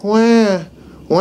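a mild, even wah without panic; calm mock cry. Shown as a demonstration. Instructor shows how a prey animal does NOT sound. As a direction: cry it but without any fear. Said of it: "isn't gonna be like".

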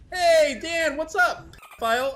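hammed-up jeering greeting; mocking troll voice.

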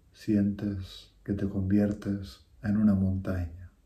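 measured meditation voice with long pauses; guided meditation. Real, not acted. Teacher leading listeners through a breathing meditation, unhurried guiding voice. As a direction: guide them through each breath, phrase by phrase.

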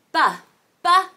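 short, separate "Ba" sounds; letter-sound demo. Shown as a demonstration. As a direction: sound out "Ba" for the first sound of baby. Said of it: "Baby starts with the letter B".

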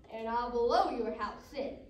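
loud, slow wolf threat; big slow storybook wolf; wolf's threat. Acted. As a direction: stretch out the threat loudly. Wolf threatens second pig.

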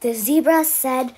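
put-on lively storybook voice for kids; bedtime story reading. A narrator's reading. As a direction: read it out to little ones at bedtime.

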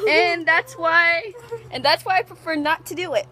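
laughing. Real, not acted. Friend laughs at the soaked girl.

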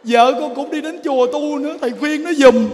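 hammed-up plea; mock tearful pleading. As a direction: imitate a helpless husband asking a favour. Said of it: "Con khóc".

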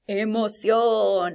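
teacher underlining the key word emoción; stretched emphasis. Shown as a demonstration. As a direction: draw out emoción with feeling. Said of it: "sin mucha emoción con".

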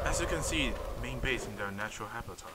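hushed wildlife narrator; nature documentary. Pretend. Parodies wildlife film narration.

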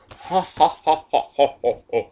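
loud spelled-out ha ha ha; hammed-up laugh, each ha punched; mock laughter. Vlogger acting out how hard he laughed, mock laughter. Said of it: "I literally L O L'd".

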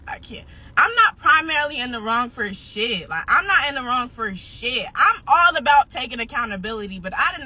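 real upset, teary; near tears. Real, not acted. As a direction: voice breaking with tears. Upset rant about best friend.

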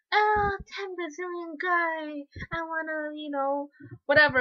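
slow, exaggerated swooning voice, lightly put on; mocking a cheesy love interest. Reviewer mocks a cheesy romance line, slow and swooning. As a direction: drag it out like a silly romance hero. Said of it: "all that gross kind of stuff".

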